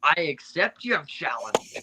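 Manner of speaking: slow pirate villain impression, lightly done; Davy Jones. Player answering friend's impression in a slow pirate villain voice. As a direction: draw it out like a movie sea captain. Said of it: "channel my Davy Jones a little".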